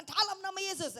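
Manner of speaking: high, loud command; forceful rebuke. Acted. Believer commanding a demon in Jesus' name, forceful rebuke. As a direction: drive the demon out with it.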